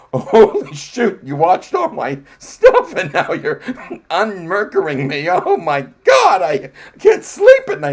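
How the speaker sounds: playing at being horrified, laughing through it; mock panic. Retelling to his co-host in a mock panicked shout.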